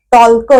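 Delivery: टॉल्क with the L sounded; wrong pronunciation. Shown as a demonstration. A teacher demonstrating the wrong L-voiced टॉल्क. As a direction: say टॉल्क with a clear L. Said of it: "टॉल्क असं थोडीच म्हणतो आपण".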